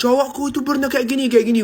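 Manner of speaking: "Cowokku itu pernah kayak gini" jauh lebih tinggi dan lantang; curhat keras-keras. Retold or imitated. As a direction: bercerita keras sampai semua orang dengar. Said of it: "Sampai semua orang dengar suara kita". (cewek Arab curhat dengan suara tinggi dan keras)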